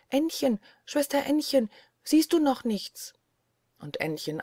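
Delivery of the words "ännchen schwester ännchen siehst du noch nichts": plain reading voice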